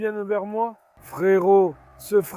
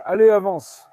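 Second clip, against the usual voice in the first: louder push of the animal forward; loud urging; 8 dB louder than usual. Real, not acted. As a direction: drive it on, loud. (ordre fort pour faire avancer l'animal)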